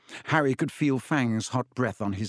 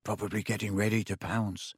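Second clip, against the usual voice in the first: fearful low reply; 2 semitones lower, 5 dB quieter than usual. A narrator's reading. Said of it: "said Ron".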